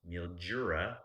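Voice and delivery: "Mildura" with a J sound, as Australians say it; Australian pronunciation. Shown as a demonstration. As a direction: imitate the Aussie "Mildura", with a J for the D. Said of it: "that's how they talk".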